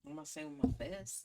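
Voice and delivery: fast whispered threat, played for laughs; whispered joke. Real, not acted. Cohost jokes about punching the slang users, in a quick whisper. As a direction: whisper it quickly like a sly aside.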